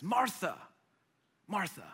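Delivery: soft, tender appeal by name; calming. Acted. Jesus calming an upset Martha, gentle appeal. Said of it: "he's trying to calm her down".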